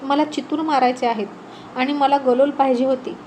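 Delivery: usual speaking voice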